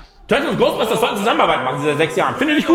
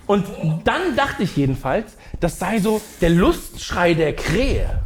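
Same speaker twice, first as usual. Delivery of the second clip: dry; slower than usual. Shown as a demonstration. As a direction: say it bone dry, no laughing. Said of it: "ich mach's nochmal ein bisschen trockener".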